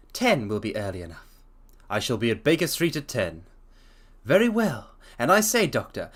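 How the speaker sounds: measured, steady read-aloud narration; storyteller reading Watson's account; story narration. A narrator's reading. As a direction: read it like a classic detective tale.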